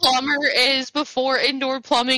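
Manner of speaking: put-on high, very slow maudlin drunk; hammed-up weepy drunk, stretching every word; pathetic crying drunk. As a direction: drag out the last words in drunken despair. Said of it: "pathetically drunk and kind of, like, just crying".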